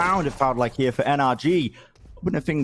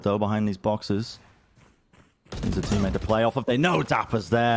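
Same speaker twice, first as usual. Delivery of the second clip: esports caster. Real, not acted. Live play-by-play casting.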